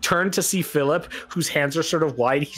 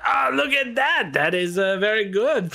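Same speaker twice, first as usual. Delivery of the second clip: gambler's praise; 7 semitones higher than usual. Acted. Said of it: "and he's like".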